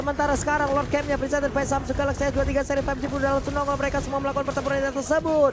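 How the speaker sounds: high, fast excited commentary; live play-by-play. Real, not acted. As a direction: call the fight at full pace. (komentar langsung yang cepat dan bersemangat)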